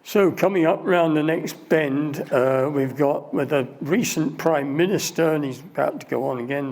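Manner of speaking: lightly voiced tour guide spiel; tour guide commentary. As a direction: reel off the facts like a bored guide.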